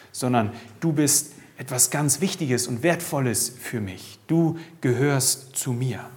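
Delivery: a hint of a loving father reassuring; gentle reassurance. God speaking lovingly to listener.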